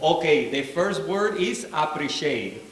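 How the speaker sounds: put-on slow, deliberate Cuban-accented teaching; thick Cuban accent, word by careful word; dad's Cuban accent. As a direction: imitate a Cuban father teaching English, softly. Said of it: "accent classes for us every morning".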